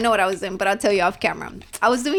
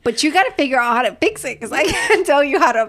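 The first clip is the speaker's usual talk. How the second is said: laughing while talking; 5 semitones higher, 5 dB louder than usual. Real, not acted. Laughing through the explanation.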